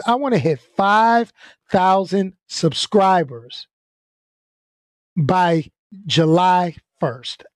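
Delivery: slow, weighty announcement of the goal; slow and deliberate. Real, not acted. Vlogger setting his subscriber goal, slow and deliberate. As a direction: spell out the goal slowly, word by word. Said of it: "That's my goal".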